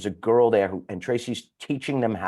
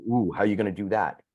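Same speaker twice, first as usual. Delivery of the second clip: curious ooh; faster than usual. Retold or imitated. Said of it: "they're like".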